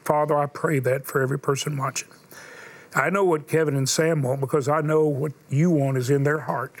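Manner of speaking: earnest spoken prayer. Acted. Preacher prays aloud for the movie and its makers, building. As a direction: pray it over them, building.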